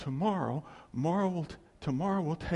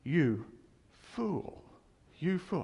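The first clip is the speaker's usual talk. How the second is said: Jesus rebuking; slower than usual. Retold or imitated. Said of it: "Jesus said".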